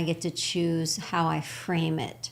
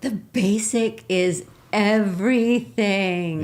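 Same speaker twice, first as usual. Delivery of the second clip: laughing; 3 semitones higher, 5 dB louder, slower than usual. Real, not acted. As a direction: laugh it out slowly, amused. Laughing agreement on basics.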